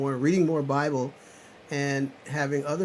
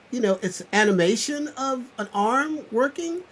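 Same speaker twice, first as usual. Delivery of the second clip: high, loud and urgent; rousing wake-up call, loud and high; fired-up preaching; 10 semitones higher, 4 dB louder than usual. Real, not acted. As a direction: shake them awake with your voice. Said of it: "I'm talking like that because people need to wake up".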